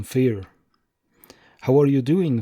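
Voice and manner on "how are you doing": put-on light French accent, question; a hint of a thick French accent. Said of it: "in his thick French accent".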